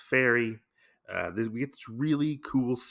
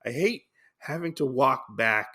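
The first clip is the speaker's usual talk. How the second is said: retold upset; 3 semitones higher than usual. Usagi upset after the boat sinks, lightly acted. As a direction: complain with a touch of upset. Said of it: "Usagi is all upset".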